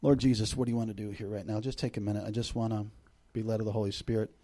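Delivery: low, soft, unforced praying; quiet prayer. Real, not acted. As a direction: pause to ask God for guidance, hushed. Prays aloud mid-sermon.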